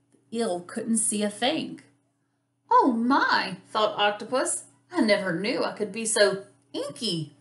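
animated picture-book narration, stretched key words; lively, expressive storybook reading; reading to children. A narrator's reading. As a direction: read it like storytime for little kids.

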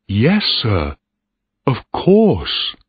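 put-on lifted, smiling boy's voice; smiling eagerness. A narrator's reading. Boy tells captain he would like command, smiling. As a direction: agree with a smile, jumping high at the end. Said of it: "Peter Heywood smiled".

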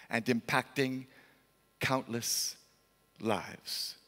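low, soft, sinking to near nothing; hushed, somber narration. A narrator's reading. Preacher telling the tragic aftermath of the market fire, hushed and somber. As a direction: let it fade gravely, with heavy pauses.

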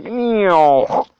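long drawn-out meow; slow mimicked cat noise; imitated meow. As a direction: stretch out a cartoon meow. Imitates the animal in the gif.

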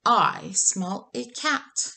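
slow, lightly voiced giant sniffing the air; a hint of a menacing giant, slowly; giant's voice.

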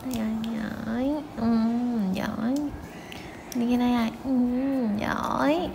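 soft pet-coaxing voice; soft praise. Real, not acted. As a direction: gently coax the dog and praise it quietly. Coaxing and praising the dog's tricks. (dỗ cún nhỏ nhẹ, khen khẽ)

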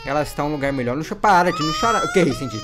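low, softened plea with a hint of crying; tearful consoling. Consoling weeping Tisha over the lost partner, tearful. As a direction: console someone while holding back tears.

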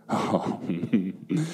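low, quiet contented laugh; hushed storyteller's chuckle; soft little chuckle. A narrator's reading. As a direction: chuckle softly and low to yourself. Narrator delights in cuddly warm doudous.

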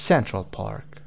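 "Central Park" with "Cen" as the strong syllable; stress on CEN. Shown as a demonstration. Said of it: "قسمت سنت".

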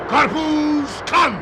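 slow hawker's call; street vendor's cry. Acted. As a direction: draw out the first word, drop on the last. Hawker crying his wares.

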